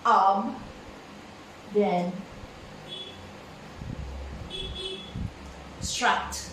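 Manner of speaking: Ab, then struct, split slowly into two parts; syllable by syllable. Shown as a demonstration. Teacher splitting the word into syllables for the class, slow and separate. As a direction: break "Ab" and "struct" apart with a pause. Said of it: "just like this".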